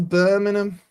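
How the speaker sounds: mock Brummie on the place name; Brummie accent. Commentator calling a free kick to the opposition, put-on Brummie accent. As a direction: say the town like a Brummie. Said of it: "trying to do a Brummie accent".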